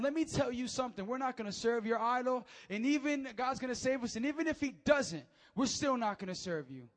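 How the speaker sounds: loud defiant preacher voice; preaching at full force. Acted. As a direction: hammer the youths' reply home. Preaching the youths' reply.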